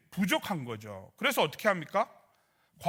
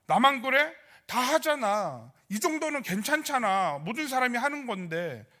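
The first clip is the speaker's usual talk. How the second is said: higher-pitched, protesting imitation of self-justification; aggrieved complaint; 4 semitones higher than usual. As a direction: act out complaining "why only me?".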